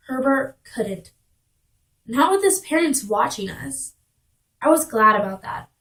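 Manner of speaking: lightly acted first-person storytelling; monologue reading. Girl recalling her first date, monologue reading. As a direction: read it as a girl's confiding monologue.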